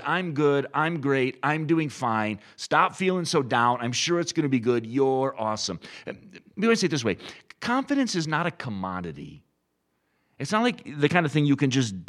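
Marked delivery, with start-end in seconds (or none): 0.0-5.8 mildly hyped mock self-encouragement; a touch of mock cheerleading; rah-rah pep talk. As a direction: imitate someone psyching themselves up, lightly. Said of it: "rah-rah, getting ourselves excited".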